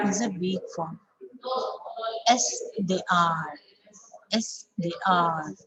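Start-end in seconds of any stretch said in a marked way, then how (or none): 2.3-5.5 slow, with final "are" drawn out in full; strong ARE. Shown as a demonstration. Teacher models a short answer, strong ARE. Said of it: "R here becomes a strong".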